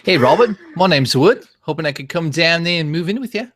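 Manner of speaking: high, loud put-on accented voice; Woody. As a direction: lift each phrase like a question. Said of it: "I can't do an impersonation of Robert".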